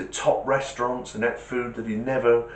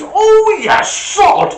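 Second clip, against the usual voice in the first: high, loud yelp of pain; 14 dB louder, much slower than usual. Acted. Octopus hit on the head yelps at the pet shop owner, high and loud. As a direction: cry out as the shovel whacks you.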